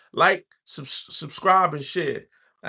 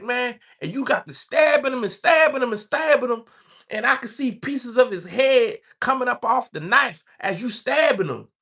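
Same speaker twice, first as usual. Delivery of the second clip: put-on crazy white boy bragging; 9 semitones higher, 3 dB louder than usual. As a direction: lightly play the gleeful inmate. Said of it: "crazy white boys".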